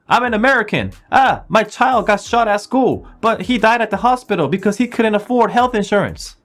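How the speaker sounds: high, loud, sneering parody; mocking comeback. Shown as a demonstration. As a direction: throw the taunt right back. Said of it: "똑같이 하시면 됩니다". (똑같이 되받아 놀리는 높고 큰 목소리)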